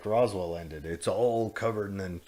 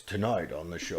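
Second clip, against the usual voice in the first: lightly imitated gruff TV announcer; a hint of a gruff, official show host; mock-official announcer read; 4 semitones lower than usual. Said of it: "He had that gruff voice".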